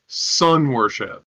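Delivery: slow, horrified hush; scandalized. Acted. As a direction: recoil as if naming a sin. Scandalized in-character.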